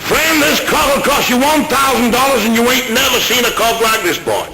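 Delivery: hammed-up American cowboy bragging; Texan farmer. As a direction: boast like a big-talking Texas rancher. Texan farmer boasting about his cock.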